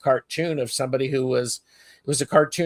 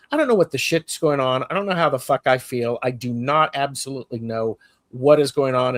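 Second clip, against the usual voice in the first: mock frantic outburst; faster than usual. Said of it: "I actually said to my therapist".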